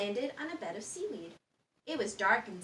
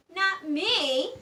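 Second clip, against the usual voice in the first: higher, louder protest; indignant cry; cook's cry; 8 semitones higher, 8 dB louder than usual. Acted. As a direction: insist it wasn't you. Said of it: "cried the cook".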